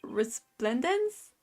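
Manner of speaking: mock-grovelling, drawn out at the end; overdone reverence. Lawyer to the queen he is honored to meet, overdone reverence. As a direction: lay the humble deference on too thick. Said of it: "Did I overdo it?".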